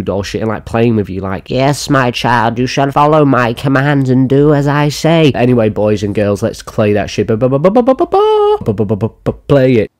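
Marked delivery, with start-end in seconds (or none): 1.5-5.3 slow, commanding put-on voice; hammed-up slow sorcerer's command; witch-like puppet master. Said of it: "manipulating you like a witch". 7.3-8.6 high-pitched rapid ba-ba-ba run; playful high vocal fanfare; silly ba-ba noises. Pretend. Silly vamp before playing the clip.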